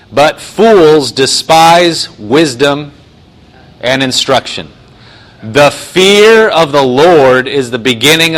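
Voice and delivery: emphatic, measured Bible reading; scripture reading. Real, not acted. Preacher reads Proverbs to the congregation, emphatic scripture reading. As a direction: read the verse out with drawn-out key words. Reads the verse aloud, twice.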